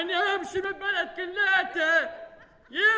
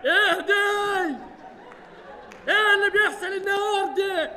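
shout; 3 semitones higher than usual. Acted. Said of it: "وطي صوتك".

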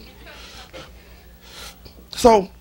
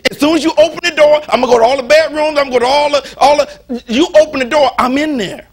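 menacing demon; 2 semitones higher, 5 dB louder than usual. Acted. Demon threatens to enter.

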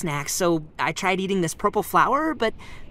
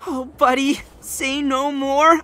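excited; 5 semitones higher, 4 dB louder, slower than usual. Acted. Eager to go help friend.

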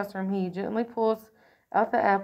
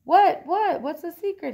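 high-pitched, eager burst of questions; excited questioning; 8 semitones higher, 6 dB louder than usual. A narrator's reading. Excited lightning bug asks his sister about a secret, high and eager. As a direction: pop each "what" up high, bursting to know. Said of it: "gets so excited".

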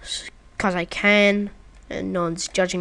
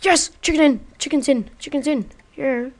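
higher, louder triumphant whoops; excited cheer; 6 semitones higher, 5 dB louder than usual. Real, not acted. Cheering as the chicken gets in, excited. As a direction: celebrate the win.

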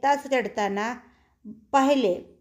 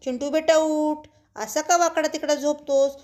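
mother waking son; 4 semitones higher than usual. Acted.

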